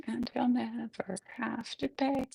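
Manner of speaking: whispered refrain. Acted. The women whisper the refrain, defeated. Femmes sing refrain hushed.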